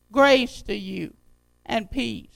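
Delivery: slow, deliberate repeat of a verse; scripture reading. Acted. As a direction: lean hard on the opening word, then let it settle. Repeats verse slowly for emphasis.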